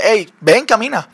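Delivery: easy, everyday invitation; super casual. Retold or imitated. Jesus calling Peter out onto the water, super casual. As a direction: beckon as if it were nothing special. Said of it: "Así súper normal".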